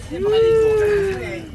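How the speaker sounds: high, loud excited yell; excited shout. Real, not acted. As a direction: shout it out in glee. Shouting while laughing over fish.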